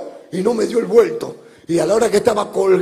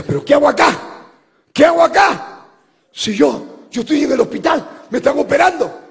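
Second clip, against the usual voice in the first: panicked cry; 5 semitones higher, 3 dB louder than usual. Retold or imitated. Woman panicking in hell, voiced.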